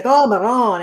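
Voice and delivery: light impression of an exasperated Italian; upset Italian consigliere. Co-host imitating the upset consigliere in Italian, mock exasperation. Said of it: "he gets upset and he only speaks Italian when he gets upset".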